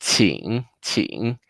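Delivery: 请 ending in a held nasal ing. Shown as a demonstration. Teacher demonstrating the ing ending for students, nasal. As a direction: let 请 ring out through the nose at the end. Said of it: "the nasal sound".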